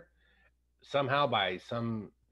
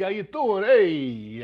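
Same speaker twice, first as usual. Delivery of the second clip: higher, louder cocky come-on; stereotypical hunk greeting; 6 semitones higher, 7 dB louder, much slower than usual. Retold or imitated. Friend imitating the hunky camp wrestler's cocky hello. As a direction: play the big hunky Italian guy saying hi. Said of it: "the stereotypical big".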